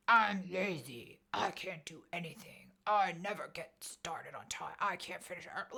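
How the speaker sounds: slow, half-whispered self-criticism; harsh self-talk. Retold or imitated. Quoting her own harsh self-talk from therapy homework, hushed and slow. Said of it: "it was really harsh".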